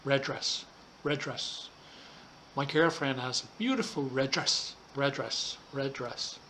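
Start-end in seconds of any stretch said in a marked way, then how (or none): 0.0-1.7 RED DRESS linked, the two Ds said as one; shared D sound. Shown as a demonstration. Teacher demonstrating joined words, red dress with one shared D. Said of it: "the two words share the sound". 4.9-6.4 RED DRESS linked, the two Ds said as one; shared D sound. Shown as a demonstration. Teacher demonstrating joined words, red dress with one shared D. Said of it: "the two words share the sound".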